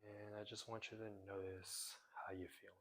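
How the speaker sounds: softly guided body check-in; guided meditation. Real, not acted. Teacher guiding viewers to notice their bodies, meditative. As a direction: ease them into noticing, gently.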